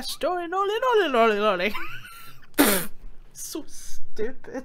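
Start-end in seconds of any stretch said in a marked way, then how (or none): 0.0-1.7 laughing. Real, not acted. Laughing through courtroom line.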